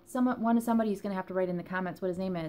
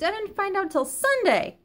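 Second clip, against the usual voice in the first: loud; 11 semitones higher, 5 dB louder than usual. Real, not acted. Repeats Sunday with more force.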